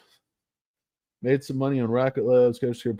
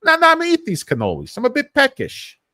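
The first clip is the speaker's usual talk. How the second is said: much higher, fast and loud protest; mock greedy actor; 6 dB louder than usual. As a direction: whine like a hungry co-star. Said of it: "I said".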